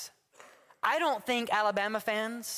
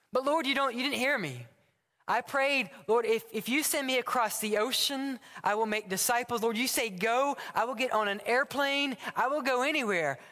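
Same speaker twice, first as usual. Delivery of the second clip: higher, insistent bargaining with God; eager pleading; 4 semitones higher than usual. Acted. Josh pleads with the Lord to send him abroad, eager and higher. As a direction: beg to be sent far away.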